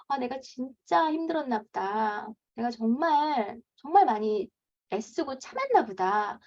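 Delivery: slow, gentle self-compassion; kind self-talk. Shown as a demonstration. A worn-out mom comforting herself, slow and gentle. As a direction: comfort yourself slowly and kindly. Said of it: "자기에게 좀 얘기를 해주시면".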